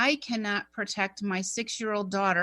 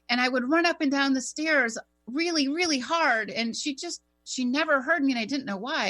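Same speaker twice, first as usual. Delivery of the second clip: higher, lightly voiced child; little boy's lament; 5 semitones higher than usual. Medium retelling a boy his mommy never heard, plaintive child voice. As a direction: recount it as a child who went unheard. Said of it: "he was telling me, he's like".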